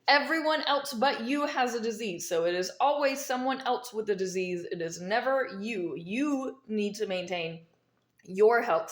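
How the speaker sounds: mint in the mouth; speaking around a mint; talking with a mint. Real, not acted. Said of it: "Sorry, I have a mint in my mouth".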